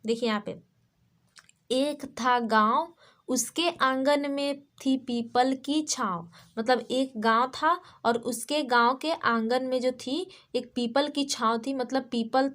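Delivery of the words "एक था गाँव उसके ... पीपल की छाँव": slow, measured rhyme recital; children's poem reading. Shown as a demonstration. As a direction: read it out line by line for small pupils, slowly. Reads the rhyme again. (धीरे-धीरे कविता पाठ)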